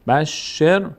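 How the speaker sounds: بشر joined as one word, shin tied to the sukun ra; read smoothly. Shown as a demonstration. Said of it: "علامت ساکنش افتاده". («بشر» پیوسته و روان)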